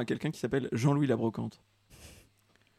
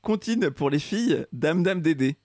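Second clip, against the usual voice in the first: comment reading voice; 3 semitones higher, slower than usual. Retold or imitated. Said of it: "Tu prends un petit peu cette voix-là quand tu m'expliques".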